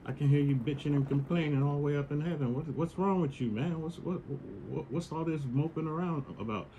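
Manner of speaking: a hint of a concerned dude from heaven; God checking in. God checks on moping Adam, lightly voiced concerned buddy. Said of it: "and you're like".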